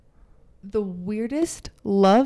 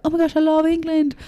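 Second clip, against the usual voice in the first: higher, excited mock gush; gushing fan; 7 semitones higher, 4 dB louder than usual. American fan gushing over England, mock excited. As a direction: imitate an excited Anglophile. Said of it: "Harry Potter and are like".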